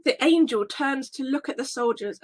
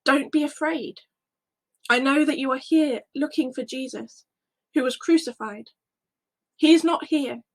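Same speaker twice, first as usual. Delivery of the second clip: angel speaking. Acted. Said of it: "and says".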